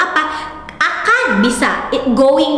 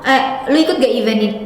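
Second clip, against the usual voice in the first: casual friend; much faster than usual. Retold or imitated. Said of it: "sering banget".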